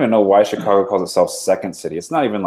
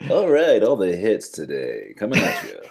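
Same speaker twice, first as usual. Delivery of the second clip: radio DJ voice. Pretend. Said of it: "smooth rock, radio D J".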